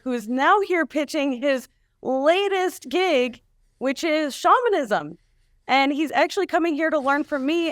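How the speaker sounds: lightly put-on news anchor read; a hint of anchorman, welcoming viewers back; newscaster voice. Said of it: "do it in your newscaster voice? Like, pretend it's a news story".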